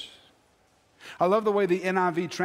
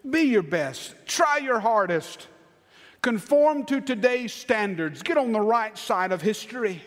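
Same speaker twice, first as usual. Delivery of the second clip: pressing, raised exhortation; the world's demands; 5 semitones higher than usual. Acted. Preacher mimics what the world says, pressing and raised. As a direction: urge them on in a higher voice.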